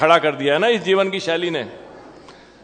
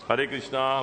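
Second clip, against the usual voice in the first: lovingly; 4 semitones lower, 8 dB quieter than usual. Retold or imitated. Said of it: "बड़े प्यार से बोला उसने".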